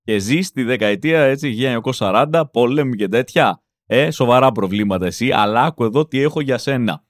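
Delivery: low, coaxing huckster calling a man over; pushy salesman pitch. Pretend. To a man from the forties, a low salesman's pitch. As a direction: reel him in like a street vendor. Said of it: "και να του πεις".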